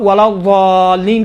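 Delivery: ضالین with a heavy d and long aa; dal-like Dad. Shown as a demonstration. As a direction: start ضالین like a thickened dal, vowel held. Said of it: "دال جیسا تلفظ کرتے ہیں".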